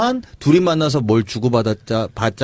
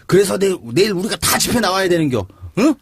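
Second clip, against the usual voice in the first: Chungcheong dialect; 5 semitones higher than usual. Retold or imitated. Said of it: "예를 들어서 하나 해주세요".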